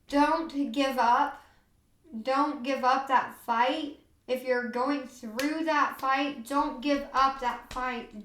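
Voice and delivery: slow, sincere, each word given weight; slow earnest plea. Real, not acted. Mother speaking to parents losing their children, slow and earnest. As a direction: plead gently and slowly with those still fighting. Urging viewers not to quit.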